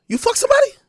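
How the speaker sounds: high, sharp accusing voice; suspicious girlfriend. Retold or imitated. Jealous girlfriend accusing her man, high and sharp.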